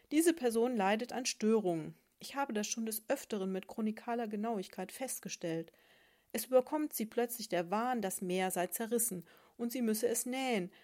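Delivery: lightly voiced know-it-all explaining; pedantic sponge. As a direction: diagnose her with dry learned authority. Sponge diagnosing the needlefish.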